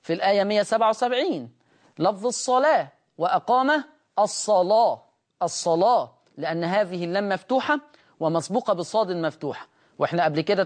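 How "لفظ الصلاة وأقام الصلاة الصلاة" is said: الصلاة with a thick velarized lam; heavy lam. Shown as a demonstration. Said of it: "تغليظ اللام".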